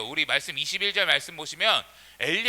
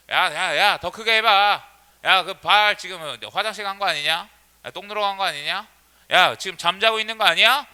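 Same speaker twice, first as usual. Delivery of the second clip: lightly acted teasing jeer; mocking taunt; 3 dB louder than usual. Elijah taunting Baal's worshippers over their silent god, mocking. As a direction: needle them with a touch of ridicule. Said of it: "엘리야가 이 조롱하고 놀려요".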